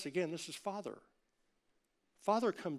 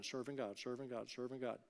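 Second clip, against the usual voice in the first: repeated softer, each time lower; fading repetition; 4 semitones lower, 8 dB quieter than usual. Acted. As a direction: let it wind down like a tired treadmill.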